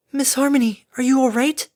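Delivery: high, concerned, melodic voice. A narrator's reading. Fluttershy checks on the fallen Harmony, melodic. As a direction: ask high, lilting with concern. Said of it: "A melodic voice dripped into her ear".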